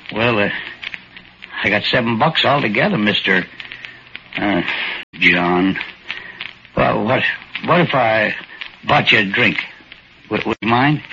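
put-on a shy old-timer, grateful and unsure; timid little old man.

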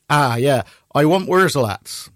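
put-on West Country accent, drawn out; slow rustic West Country voice of a band. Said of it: "that's how the band speak".

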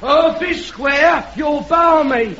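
shouting back scornfully from the crowd; heckler shouting. Acted. Heckler shouts back at the soapbox speaker, scornful.

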